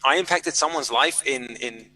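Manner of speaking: whoa shot up high, then slow wonder; amazed whoa. Retold or imitated. Author marvelling to himself at a reader abroad, astonished. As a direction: act out being stunned by the news.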